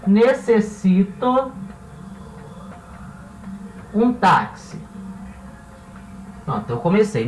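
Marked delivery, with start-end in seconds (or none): 0.1-4.8 drawn-out, slow Necessito; slow model sentence. Shown as a demonstration. Teacher reading the example sentence slowly. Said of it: "posso reescrever essa frase como".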